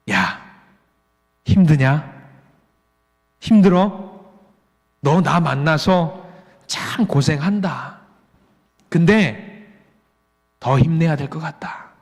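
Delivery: lightly voiced gentle God. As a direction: speak slowly, consoling someone worn out. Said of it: "라고 하나님께서 세미한 목소리를 내주시는". (지친 이를 달래는 나직한 목소리)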